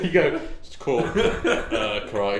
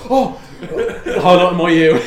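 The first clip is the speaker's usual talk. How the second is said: loud, high-pitched mock gushing; gushing outburst; 6 semitones higher, 12 dB louder than usual. Podcaster retelling own reaction to co-hosts, loud gushing. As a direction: burst out with exaggerated delight.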